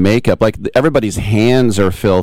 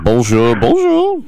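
hammed-up French accent, the second bonjour swooping very high; mock French greeting, sung up into a high squeak; French persona greeting; 4 semitones higher, slower than usual. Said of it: "French persona".

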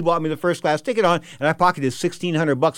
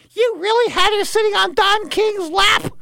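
much higher, slow incredulous judge; 6 dB louder, slower than usual. Retold or imitated. Judge questions the father in divorce court, slow and incredulous. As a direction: play the shocked judge. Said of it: "the judge said".

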